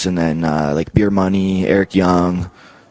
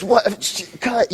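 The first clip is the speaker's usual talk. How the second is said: Vince yelling cut; 11 semitones higher, much slower than usual. Retold or imitated. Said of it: "then he goes".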